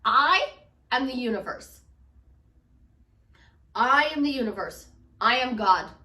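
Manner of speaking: loud, weighty I AM the universe; bold declaration. Pretend. Coach declaring herself the universe to clients, loud and proud. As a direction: proclaim it like the voice of God. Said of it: "I'm gonna say this in the politest way".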